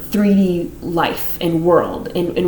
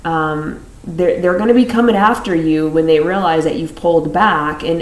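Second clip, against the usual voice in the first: ordinary talk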